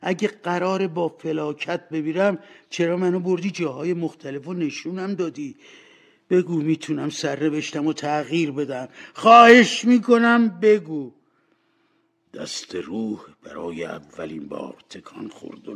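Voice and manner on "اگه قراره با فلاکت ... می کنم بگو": high-pitched, urgent begging; desperate pleading. Acted. Scrooge begging the spirit to change his fate, desperate. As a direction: beg for your fate, rising to a loud plea.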